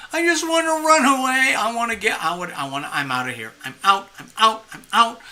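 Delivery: panicked shout. Acted. Acted panic of wanting escape.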